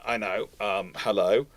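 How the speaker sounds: ordinary talk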